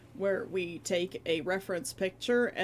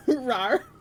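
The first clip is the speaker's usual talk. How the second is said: laughing rar; 5 semitones higher, 10 dB louder than usual. Real, not acted. Repeats the alert's rar.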